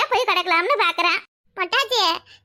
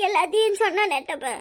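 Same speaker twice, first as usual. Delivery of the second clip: tearful. Acted. Aunt weeps hugging Stella.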